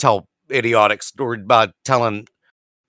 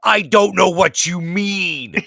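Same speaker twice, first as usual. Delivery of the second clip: high, drawn-out protest; exasperated bafflement; 8 semitones higher, slower than usual. Retold or imitated. Clueless worker protesting to coworker about the cider, exasperated. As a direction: plead slowly in higher-pitched confusion. Baffled teller in retold exchange.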